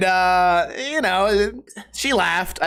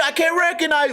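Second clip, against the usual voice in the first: much higher, dopey mocking take on "I can't recognize"; mock caveman; 10 semitones higher than usual. Mocking the tweaker's words as a caveman, hammed up. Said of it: "Caveman talking to caveman".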